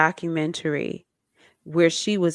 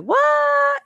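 imitating a stunned jump in pitch, squeaked high; mock disbelief, voice shooting way up on the word; shocked what; 6 dB louder than usual. Fans learning two singers are siblings, high shocked squeak. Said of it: "they're like".

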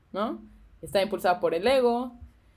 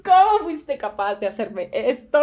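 indignant disbelief; 2 semitones higher, 4 dB louder than usual. Retold or imitated. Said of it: "suavizado por un tono de incredulidad".

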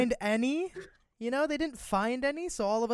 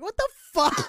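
loud, high, laughing disbelief; retelling his reaction to being sent to German camp; mock shocked outburst; 9 semitones higher, 8 dB louder than usual. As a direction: blurt it out in stunned outrage.

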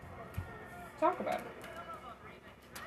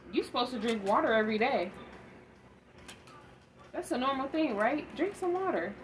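lightly faster, casually stating the obvious; matter-of-fact; 2 semitones higher than usual. Retold or imitated. Mimicking how the brother said it, matter-of-fact and casual. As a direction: say it like everyday common sense. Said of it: "he said it like you would say".

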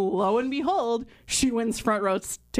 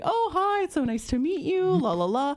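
friendly greeting; 6 semitones higher than usual. Retold or imitated. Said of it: "he was actually really nice".

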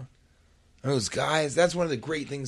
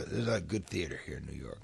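mild imitation; 6 semitones lower, 8 dB quieter, faster than usual. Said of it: "he'd be like".

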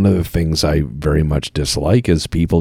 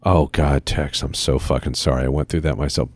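mock sympathy; 5 semitones lower, 3 dB quieter than usual. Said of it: "someone come out and say".

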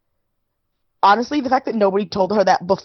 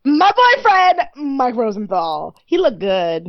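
playful gushing; 3 semitones higher, slower than usual. Real, not acted. Joking about the photographer.

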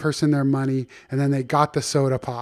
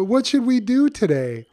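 animal character voice; 8 semitones higher than usual. Acted. Storyteller voicing animal friend.

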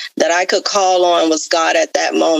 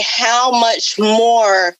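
retold cry to God; 3 semitones higher, much slower than usual. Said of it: "I just cried out to God real loud".

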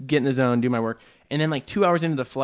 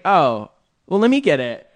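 generous woman; 2 semitones higher, 7 dB louder than usual. Retold or imitated. Retold woman offering to pay.

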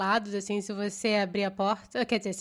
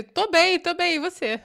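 higher and louder, laughing through a joking answer; mock reply; 8 semitones higher, 6 dB louder than usual. Friend jokingly answers the salesman, laughing, higher and louder. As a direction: play along with a laugh.

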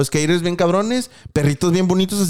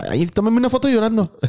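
higher, whiny fake-cry request; hammed-up tearful plea with a laugh in it; mock crying; 6 semitones higher than usual. Crier asking for a photo, mock crying. Mocks man posing while crying.

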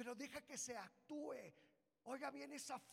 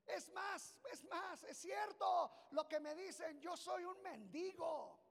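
self-pitying; 6 semitones higher, 8 dB louder than usual. Acted. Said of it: "hubiera dicho".

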